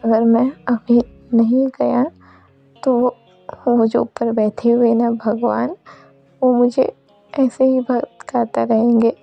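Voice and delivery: understated imploring farewell; earnest plea with measured pauses; mild acted pleading. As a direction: gently plead to be let go.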